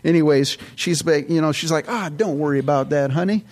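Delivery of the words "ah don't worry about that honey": a hint of a sweet Texas lady; Texas accent. Saleswoman soothing a laid-off customer, Texas accent. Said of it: "I love that accent".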